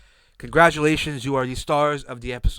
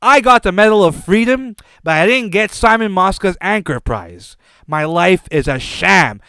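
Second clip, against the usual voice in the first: mock crying; 3 semitones higher, 5 dB louder than usual. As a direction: play Rush Limbaugh pretending to weep over a lost prize. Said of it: "He's crying. He's saying".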